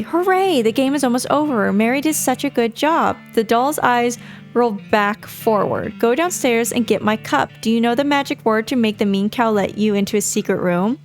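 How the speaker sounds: chirpy doll with eerie calm; too calm creepy doll. Acted. Doll speaks.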